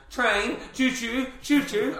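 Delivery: put-on high, slow childlike choo choo; imitating a toddler. Dad imitating his son asking for the train film, high and slow. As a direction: mimic a little boy chanting train noises. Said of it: "he goes, Theo goes".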